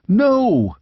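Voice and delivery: high, eager mock shout; exultant shout. A narrator's reading. Squire contradicts the king, exultant high shout. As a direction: cry out in triumph, lightly. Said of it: "shouted the squire exultantly".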